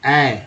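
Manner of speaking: ए opened toward the A of map; the map vowel, said alone; vowel sound demo. Shown as a demonstration. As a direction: sound out ए on its own. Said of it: "मैप में ए को क्या बोला गया".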